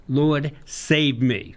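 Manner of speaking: slow, drawn-out plea; a slow, pleading cry to be rescued; a cry for help. Retold or imitated. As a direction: stretch out a desperate plea. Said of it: "and he cried".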